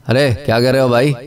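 quick "अरे क्या कह रहे हो भाई", rising at the end; demonstrated tone, sharper take. Shown as a demonstration. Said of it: "अल्फाज की टोन जो है".

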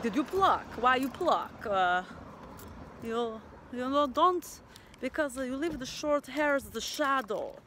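light mock Russian accent, imitating the waxing lady; a hint of a Russian accent. Imitating the Russian waxing lady with a light Russian accent. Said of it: "don't make fun of my Russian accent".

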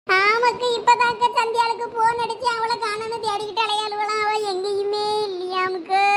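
acted lament with long dragged endings; wail, drawing out each last word; anguished wailing. Mother tells neighbours her girl is missing, anguished wailing.

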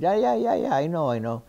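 mock brush-off, starting high and loud; impatient interruption. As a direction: cut in impatiently, imitating someone on the phone. Retold phone interruption by Menotti.

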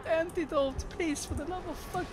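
usual speaking voice

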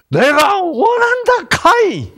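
Jesus in Gyeongsang dialect, calling out earnestly. Shown as a demonstration. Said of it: "경상도 사람이었다면".

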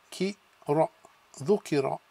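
"ki, ra" apart, then "dhukira" joined; syllable by syllable. Shown as a demonstration. Teacher sounding out a word for students. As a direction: split "ki" "ra", then say "dhukira" whole.

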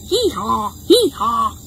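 playful hee-haws; two-part donkey calls; donkey bray. Shown as a demonstration. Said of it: "He says".

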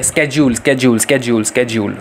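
स्केड्यूल repeated with a hard SK, falling in pitch; American pronunciation. Shown as a demonstration. Teacher drilling American स्केड्यूल for the class, with a hard SK. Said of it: "ये कहते हैं हम लोग American pronunciation".

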